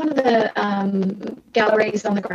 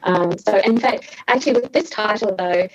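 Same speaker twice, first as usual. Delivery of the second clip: choppy breaking-up audio; call dropping out. Real, not acted. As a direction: voice cutting out on a bad line. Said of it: "you're breaking up a little bit".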